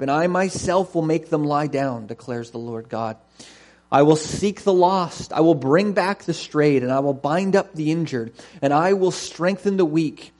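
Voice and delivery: measured, solemn reading aloud; deliberate Bible reading to a congregation; scripture reading. Acted. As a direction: read it as God's declaration, leaning on key words.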